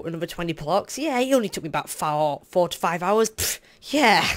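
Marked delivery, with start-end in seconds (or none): 3.3-3.6 sharp puff through the lips; derisive pfft. Real, not acted. Player scoffing at hours spent digging, derisive pfft. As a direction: blow a dismissive raspberry. Exasperated at long dig time.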